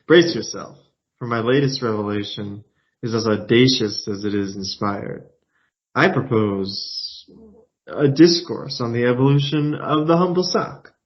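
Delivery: lightly grandiose storyteller, slow build to the sock; hint of a pompous poet; pompous orator. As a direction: announce it like a grand revelation. Reads pompous Daniel lines.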